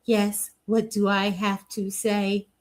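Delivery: slow, dutiful programmed reply; wound-up doll singer. Retold or imitated. A singer as a wound-up toy told to talk, slow mechanical reply. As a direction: answer like a wind-up doll awaiting orders. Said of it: "they just wind you up and say".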